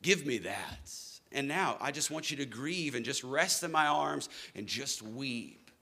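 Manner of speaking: a touch of tender comfort; tender Jesus. Pretend. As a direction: gently invite them to rest. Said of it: "And he says".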